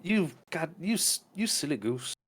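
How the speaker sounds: high, playful coquettish voice; teasing dancer. Acted. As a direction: coo it like a flirt brushing him off. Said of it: "And Virginia's like".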